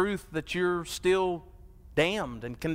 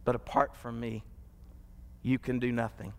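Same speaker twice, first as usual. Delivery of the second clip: hushed sermon drop; 7 semitones lower, 6 dB quieter than usual. Acted. Sudden drop after preaching.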